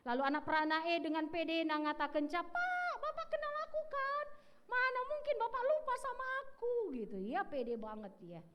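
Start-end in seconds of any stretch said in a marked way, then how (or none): 2.2-6.7 put-on high, bright-eyed young man greeting the pastor; cocky young man. Young man boasting to his old pastor, high and sure of himself. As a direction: pitch it way up, brimming with confidence.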